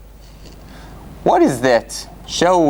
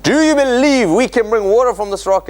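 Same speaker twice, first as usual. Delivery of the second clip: evangelical preacher; 8 semitones higher than usual. Shown as a demonstration. Moses as preacher rallies the crowd, booming and high. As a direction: boom it out like a revival preacher. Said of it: "like an evangelical preacher".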